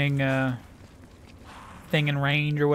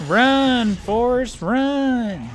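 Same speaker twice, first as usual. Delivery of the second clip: shouted movie quote; 8 semitones higher, 4 dB louder, much slower than usual. Retold or imitated. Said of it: "famous movie line quoted".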